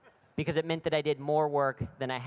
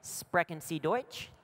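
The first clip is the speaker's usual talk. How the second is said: practised German; 5 dB quieter, slower than usual. Retold or imitated. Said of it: "I'm gonna say".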